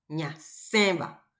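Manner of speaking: "ñaceba" drawn out slowly, nasal E stressed in "ce". Shown as a demonstration. Teacher repeating the example, slow "ñaceba" with nasal stressed E. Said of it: "Fuerza de pronunciación en la E".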